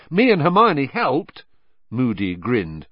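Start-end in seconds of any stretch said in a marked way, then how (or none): 0.1-1.4 eager, higher and louder interjection; quick and eager. A narrator's reading. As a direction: jump in to claim credit. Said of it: "Ron said quickly".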